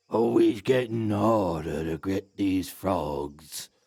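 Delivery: very deep, guttural troll voice. Voicing a troll walking away into the undergrowth: guttural troll voice. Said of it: "just hear its guttural comment".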